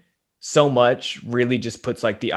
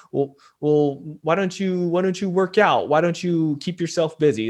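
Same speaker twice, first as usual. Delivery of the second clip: higher-pitched mock well-meaning advice; broken-record advice-giver; 5 semitones higher than usual. Guest imitating useless advice to a struggling friend, broken-record voice. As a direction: parrot tired advice in a raised voice. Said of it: "sound like that broken record that's like".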